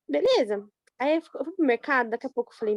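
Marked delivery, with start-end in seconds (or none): none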